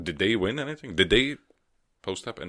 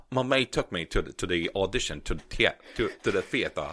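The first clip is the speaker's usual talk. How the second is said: hammed-up Liverpool auditioner telling a backstory; contestant from Liverpool. Auditioner telling the judges how they came, mock Liverpool contestant. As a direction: play a stumbling Liverpool contestant. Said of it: "were in Liverpool".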